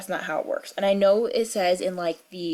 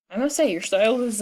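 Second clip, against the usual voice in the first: voice cracking. Real, not acted. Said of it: "That was a weird voice change".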